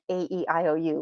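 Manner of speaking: quick, clipped run through the vowels; the way not to do it; rattled off. Shown as a demonstration. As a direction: rush through them like a list. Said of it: "but we're not just gonna be all like".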